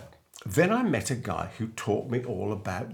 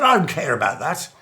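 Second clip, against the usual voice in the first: aggressive; 4 semitones higher, 6 dB louder than usual. Retold or imitated. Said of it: "I mean, this aggressive".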